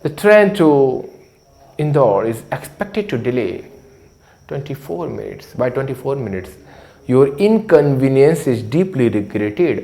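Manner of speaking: imitating a railway platform announcement; slow announcer read over the station speakers; railway announcer voice, drawn out. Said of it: "तो कहते हैं".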